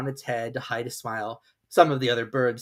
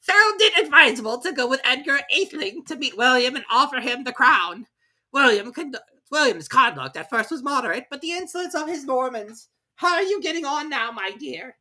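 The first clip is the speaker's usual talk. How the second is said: very high, pompous squeaky lecture; pompous Mouse; 12 semitones higher, 5 dB louder than usual. Acted. Mouse lecturing the wet party, high and pompous. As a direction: recite dry history grandly. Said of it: "hurriedly went on".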